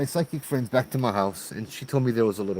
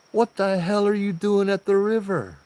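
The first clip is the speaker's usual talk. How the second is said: higher, a touch of the wife's startled voice; wife's startled question; 8 semitones higher than usual. Retold or imitated. Wife at the house, puzzled why he is at the river, higher startled voice. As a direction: imitate her calling from the house.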